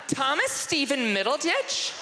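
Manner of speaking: put-on high, excited girl voices; girls greeting. Girls welcoming him to the dorm, high excited. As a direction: gush over the new boy.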